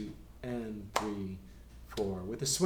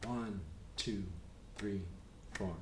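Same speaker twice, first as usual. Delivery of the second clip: steady count; 3 semitones lower, 10 dB quieter than usual. Shown as a demonstration. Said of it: "Until it becomes so easy and we don't speed up".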